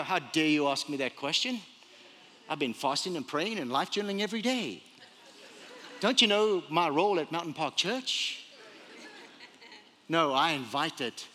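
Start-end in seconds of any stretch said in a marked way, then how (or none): 0.0-8.4 low, restrained mock indignation; mock offended. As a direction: act affronted at being questioned, voice lowered. Acts out offended self-important reply.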